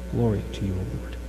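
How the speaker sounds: far-off quiet crowd reply; a congregation answering from the back; distant congregation response. Real, not acted.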